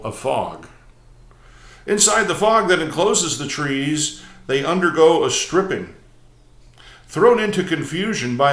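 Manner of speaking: measured, emphatic prose-poem recital; poetry reading. Acted. Host reads a prose poem to viewers, measured recital. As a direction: read it out phrase by phrase with deliberate pauses.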